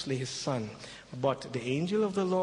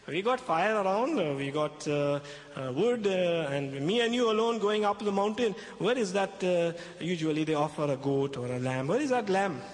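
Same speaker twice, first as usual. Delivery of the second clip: put-on young Isaac. Preacher voices young Isaac asking.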